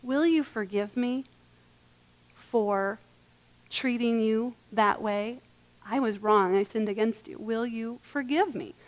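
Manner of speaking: soft, slow, humble apology; quiet heartfelt plea; sincere apology. Shown as a demonstration. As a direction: ask forgiveness gently and mean it. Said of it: "How about".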